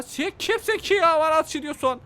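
high who-are-you-even; indignant. Acted. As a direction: squeak in disbelief. Indignant at the woman shooting.

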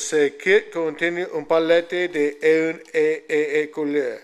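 slow French read with a Spanish accent. Real, not acted. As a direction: sound out the French slowly through a Spanish accent. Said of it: "French with my Spanish accent".

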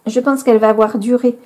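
hiccuping. Real, not acted. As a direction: hiccups breaking the words. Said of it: "pardon, j'ai le hoquet".

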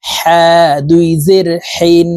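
"হ্যাঁ" and "হিন" with a mid-throat Arabic h; throat-made ha. Shown as a demonstration. Teacher shows viewers where ha is articulated, "হিন" from mid-throat. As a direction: pronounce the h of "হিন" from the middle of the throat. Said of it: "হলকের মধ্যখান থেকে পড়তে হবে".

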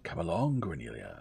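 cheery call with a grin. Acted. Grinning suitor summoning her as she enters, called out. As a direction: call loud on the first words, then drop. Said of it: "grinned broadly, and called out".

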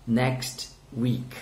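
"Next week" as two separate careful words; spaced-out "Next week" for learners; model pronunciation. Shown as a demonstration. Teacher models "Next week" for students to repeat, careful and separated. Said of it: "Repeat, guys".

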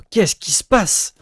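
high, slow put-on voice of disbelief; mock baffled squeak. Player mocks the opponent's play, high and slow. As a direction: stretch it out high like a cartoon.

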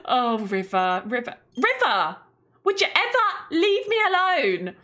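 a hammed-up sigh at a clingy partner; mock exasperated sim. Player voicing her sim telling River off, mock exasperated.

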